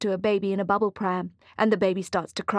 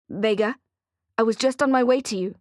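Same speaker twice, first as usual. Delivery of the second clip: eager; 2 semitones higher, 3 dB louder than usual. Acted. Answering call eagerly.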